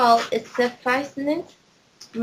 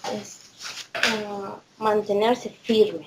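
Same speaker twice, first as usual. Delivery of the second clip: in Spanish; 3 dB quieter than usual. Real, not acted. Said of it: "Say it in Spanish".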